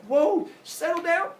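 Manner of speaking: high, loud, drawn-out whoa; slow her down in a high, startled voice; alarmed calming. Retold or imitated. Zeus to yelling Semele, alarmed.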